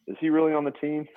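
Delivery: put-on high brash New York accent. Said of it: "there's a New York accent".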